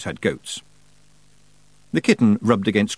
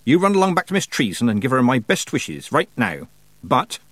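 higher, emphatic send-off; brisk old witch; 4 semitones higher than usual. Acted. Old witch sending a girl back home, brisk. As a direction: shoo the girl along.

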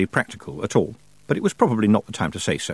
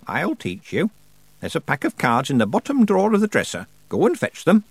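put-on raised, deliberate voice of an imperious old witch; old witch Miss Treason; 7 semitones higher than usual. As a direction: play the grand old witch holding court.

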